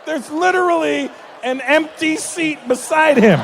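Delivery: loud call-out. Real, not acted. To the crowd about Manav's wife, a slow booming call-out. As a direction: announce it to the whole room. Pointing out empty seat loudly.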